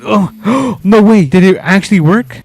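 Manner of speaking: gasping, pitch jumping up; sudden disbelief, gasp then ask; surprised gasp. Real, not acted. Tow strap finally pulls free.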